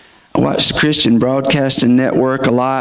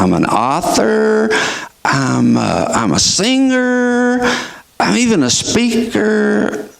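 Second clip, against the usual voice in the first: higher, eager self-listing; lightly voiced Sheila; 8 semitones higher than usual. Sheila answering the doctor, a hint of eagerness. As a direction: list your titles brightly.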